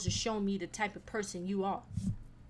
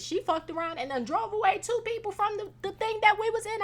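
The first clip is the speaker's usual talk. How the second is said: higher, amused disbelief; incredulous; 10 semitones higher than usual. Real, not acted. Telling how mama's snoring drove people away, amused. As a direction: tell it half laughing. Laughing about mama snoring.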